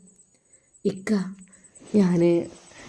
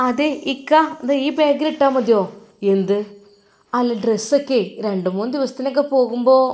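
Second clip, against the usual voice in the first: put-on higher, curious young wife; wife asking; 4 semitones higher than usual. Wife asks husband why he goes to madrasa, higher voice. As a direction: ask him sweetly, a pitch up. Wife's voice in story.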